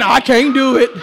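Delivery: lightly low, limp excuse; a hint of feeble moaning; mock whine. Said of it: "they already saying".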